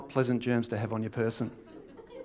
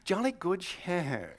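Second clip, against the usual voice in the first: slow, drawn-out mock English accent; hammed-up English gentleman accent; Englishman impression; 3 semitones higher, much slower than usual. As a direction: play a caricature Englishman. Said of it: "you're an Englishman".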